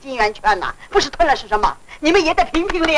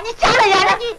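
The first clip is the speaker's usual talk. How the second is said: higher-pitched indignant outburst; angry protest; 5 semitones higher than usual. Acted. Tenant being shoved by the landlord, angry protest. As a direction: lash out, voice lifted. Tenant pushed during quarrel.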